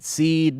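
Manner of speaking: "seed" with one long EE vowel; alternative pronunciation. Shown as a demonstration. Streamer querying how Saeed is said, "seed" as one EE syllable. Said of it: "Can you just decide, is it".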